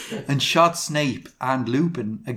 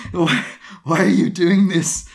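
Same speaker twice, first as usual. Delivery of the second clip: louder, higher acted demand; angry; 4 semitones higher, 5 dB louder than usual. A narrator's reading. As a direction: demand it in mock anger. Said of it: "Lupin said angrily".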